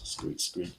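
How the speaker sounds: two soft, voiceless squeaks; imitated mouse squeaks. Shown as a demonstration. Animal sound for the mouse card.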